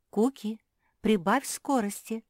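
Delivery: commanding. A narrator's reading. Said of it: "велела Капитолина".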